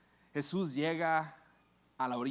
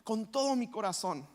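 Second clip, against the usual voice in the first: heartfelt confession; 4 semitones higher than usual. Acted. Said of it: "Y dice".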